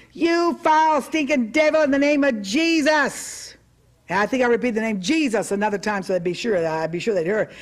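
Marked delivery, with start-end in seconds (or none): 0.1-3.5 high, loud rebuke of the stinking devil; very loud, energetic. Retold or imitated. Preacher yelling at the demon-possessed woman, very loud and energetic. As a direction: hurl it at the spirit with full force. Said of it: "very energetically and very enthusiastically and very loudly".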